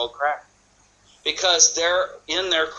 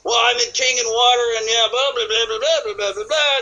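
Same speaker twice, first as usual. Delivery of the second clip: mock babbling pitch; 8 semitones higher than usual. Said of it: "you puke up and go".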